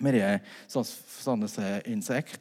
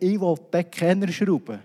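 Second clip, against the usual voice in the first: retold insistence; 4 semitones higher than usual. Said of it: "ich habe gesagt".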